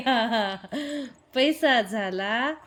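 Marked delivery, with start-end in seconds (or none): 1.3-2.5 पैसा stressed, line slow with a rising end; slow emphatic recital. Shown as a demonstration. Mother models the rhyme line, stressing पैसा. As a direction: lean on पैसा and let झाला rise. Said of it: "teaching the poem line".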